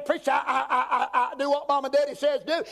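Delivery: high, stammering excuse-maker; mock pleading objector. Churchgoer to preacher claiming obedience to parents, pleading. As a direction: plead your case in a high, halting voice.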